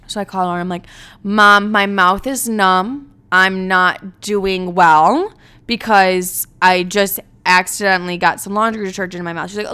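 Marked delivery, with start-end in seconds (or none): 1.2-9.5 mock panic. Panicked call to mom.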